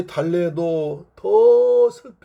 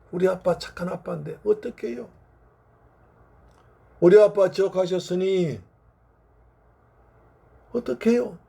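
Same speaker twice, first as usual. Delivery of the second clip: put-on aggrieved child; 3 semitones higher than usual. Child to missionary about the dead father, aggrieved. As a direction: plead at the unfairness, without full tears. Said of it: "억울하다는 겁니다".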